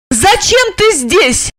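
high, slow demanding shout; high-pitched female demand; crying out. A narrator's reading. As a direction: cry the question at him. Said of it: "закричала она".

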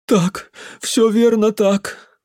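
put-on high, loud, slow drunken agreement; the drunk uncle chiming in to agree; eager drunk. A narrator's reading. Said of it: "подхватил мужик".

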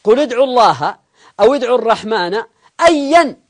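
emphatic verse recitation, loud at the start; declaimed scripture phrases; Quran recitation. Acted.

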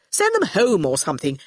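offhand, impatient suggestion; Torquil offhand. Acted. Torquil wants the children gone, dismissive. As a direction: brush the children aside.

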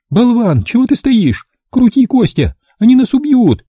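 very high, loud hysterical shriek; high female screaming hysterics; hysterical woman. A narrator's reading. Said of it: "снова зашлась в истерике".

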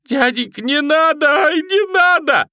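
very high, loud terrified shriek. A narrator's reading. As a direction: scream in terror begging. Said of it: "визжащего". (визжит от ужаса)

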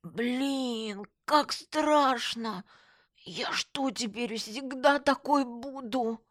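high, drawn-out slurred wail; slow horrified whine through a crooked mouth; horrified numb-lipped friend. A narrator's reading. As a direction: stretch it out high, aghast at your face. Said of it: "тут же ужаснулась".

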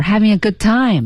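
"good time" swings up in pitch; "good time" lifted. Shown as a demonstration. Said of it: "Good time是扬上去的". ("good time"语调扬上去)

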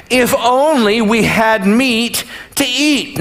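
slow, drawn-out plea for food; a touch of theatrical wailing; mock wailing. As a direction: read it as a mildly hammed-up lament. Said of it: "the Israelites started wailing".

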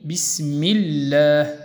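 بسم الله with the lam of الله kept light and thin after the kasra; slow thin lam in Allah. Shown as a demonstration. Teacher slowly demonstrating a thin lam. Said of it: "مثال كما قلنا".

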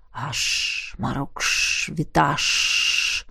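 hushed whispered incantation; whispered spell. A narrator's reading. Emmet casts the dissolving spell in a whisper. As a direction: breathe the magic words.

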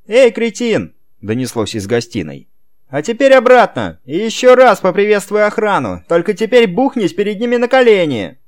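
высокий громкий приказной крик; орать издалека на слугу; грубый окрик. A narrator's reading. Хозяин орёт на дворецкого издали. (Роберто кричит дворецкому из гостиной)

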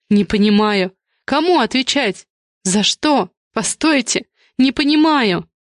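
a mother growing frightened as the police answer; bewildered alarm. Acted.

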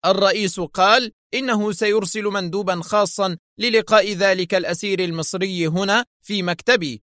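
high-pitched flustered explanation; nervous. A narrator's reading. Director at a loss over the envoy, nervous. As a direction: explain your bind with nervous agitation. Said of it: "وقلب كفيه قائلا في عصبية".

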